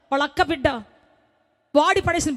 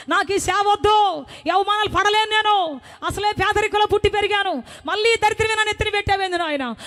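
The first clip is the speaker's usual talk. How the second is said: anguished plea; 2 semitones higher than usual. Retold or imitated. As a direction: pour out a broken-hearted complaint to God. Retold heartbroken complaint to God.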